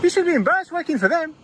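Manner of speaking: put-on half-held Scottish accent, scolding a passerby; Scottish accent slipping back to normal. Auditor scolding a passerby, in a put-on Scottish accent. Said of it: "my Scottish accent was good or not".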